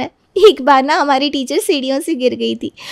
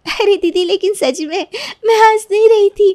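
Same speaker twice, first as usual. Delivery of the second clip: laughing denial; 7 semitones higher than usual. Acted.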